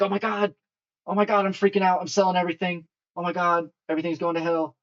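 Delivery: high, loud hammed-up freak-out; mock panic. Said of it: "so caught up in this shorter time frame".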